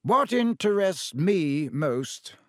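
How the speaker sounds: put-on slow, gentle old wizard; unhurried and kind, drawing it out. Dumbledore muses to the room, slow and gentle. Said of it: "said Dumbledore gently".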